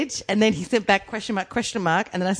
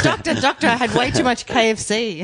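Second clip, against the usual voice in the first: mock patient; 3 semitones higher than usual. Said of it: "He's like".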